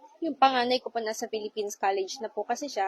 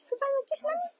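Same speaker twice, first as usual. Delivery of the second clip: whisper; faster than usual. Real, not acted. Mother asking her little daughter for a kiss, whispered.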